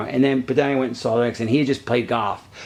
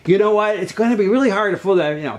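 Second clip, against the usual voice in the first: demo quote; 5 semitones higher than usual. Shown as a demonstration. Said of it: "that's the story template".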